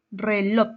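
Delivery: "Reloj" with a loud second syllable; teacherly "Reloj", force on the last syllable; stress on LOJ. Shown as a demonstration. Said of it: "En la última sílaba".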